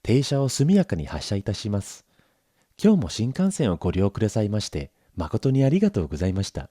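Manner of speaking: put-on Japanese announcer voice; classic train announcement. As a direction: announce the stop like a Shinkansen recording. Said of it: "the classic announcement".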